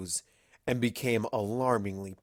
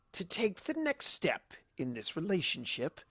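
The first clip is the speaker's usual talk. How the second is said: higher, softer, slyly sweet proposal; Discord's mock proposal; 6 semitones higher, 5 dB quieter than usual. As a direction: play the fake romantic. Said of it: "Discord said slowly".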